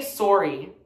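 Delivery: "sorry" with a rounded "sore" vowel; Canadian "sorry". Shown as a demonstration. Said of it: "Same thing with sorry".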